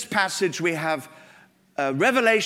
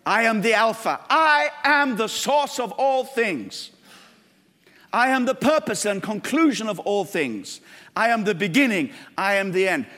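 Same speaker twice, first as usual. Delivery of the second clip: solemn proclamation; 3 semitones higher than usual. Acted. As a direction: speak as the Lord proclaiming. Voicing Christ's claims, slow.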